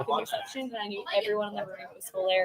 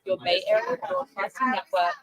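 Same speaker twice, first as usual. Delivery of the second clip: radio station ID read. Acted. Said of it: "take it away".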